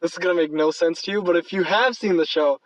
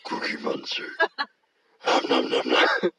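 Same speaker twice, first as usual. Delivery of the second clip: throat-straining monster munching voice; Cookie Monster. Acted. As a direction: play a cookie-gobbling monster until it hurts your voice. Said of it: "You sound like Cookie Monster".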